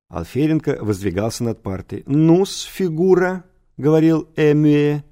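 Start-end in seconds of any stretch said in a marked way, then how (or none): 2.1-3.4 put-on higher-pitched old teacher; lightly voiced old man beginning an interrogation; mumbling old teacher. A narrator's reading. Old teacher begins quizzing a pupil, drawn-out mumble. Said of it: "при этом мямлил и каждую фразу разбавлял".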